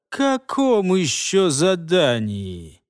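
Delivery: slow suspicious drawl; wary drawl. Acted. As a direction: stretch it out warily. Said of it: "настороженно протянул Илос".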